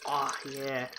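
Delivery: soft ASMR voice; breathy, close ASMR delivery. Pretend. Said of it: "You want some A S M R".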